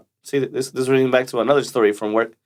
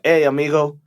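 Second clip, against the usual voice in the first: mock slow Spanish; slower than usual. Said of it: "be like".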